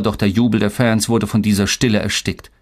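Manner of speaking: plain reading voice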